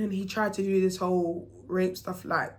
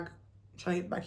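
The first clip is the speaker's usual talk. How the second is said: dropped much softer, almost under breath; quiet repeat; 9 dB quieter than usual. Real, not acted. Narrator retelling to viewers, muttering the line softer.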